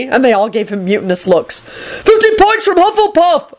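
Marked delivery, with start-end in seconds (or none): 1.6-3.5 high, drawn-out furious order; bellow. A narrator's reading. Neville punishing the screaming girls, bellowing. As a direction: bellow the penalty slowly. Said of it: "Neville bellowed".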